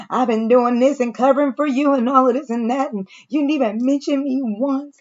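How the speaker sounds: imitated hurt, pitch climbing at the end; mock near-tearful grievance, all up in her feelings; about to cry. Retelling Leah confronting him for not mentioning her, mock near-tearful. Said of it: "she about to cry and shit".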